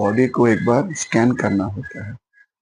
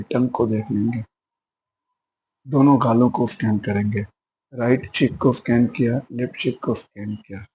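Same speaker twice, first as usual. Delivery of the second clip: unhurried body-scan guidance with pauses; measured meditation instructor, phrase by phrase; guided meditation. Acted. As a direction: lead listeners step by step through a body scan. Leads body-scan meditation practice.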